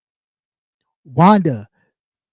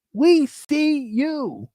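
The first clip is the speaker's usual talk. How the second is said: slow, much softer echo of the call-out; soft knowing repeat; 5 semitones higher, 6 dB quieter, much slower than usual. Real, not acted. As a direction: drop it down, quiet and knowing. Calling out the liar.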